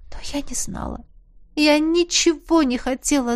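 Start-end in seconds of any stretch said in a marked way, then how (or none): 0.1-1.0 despairing whisper. A narrator's reading.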